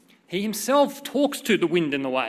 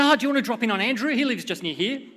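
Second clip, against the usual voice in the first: quick, higher-pitched imitation of a keen friend; casual eager suggestion; 5 semitones higher, 3 dB louder, faster than usual. Friend suggests dropping in on Andrew, quick and eager. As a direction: toss out an impulsive idea, fast.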